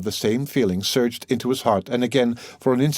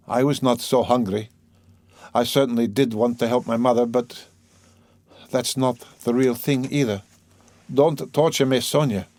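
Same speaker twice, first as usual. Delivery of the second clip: slightly raised, strained pleading; troubled confessing man; 4 semitones higher than usual. Acted. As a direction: confess reluctantly, begging her to relent.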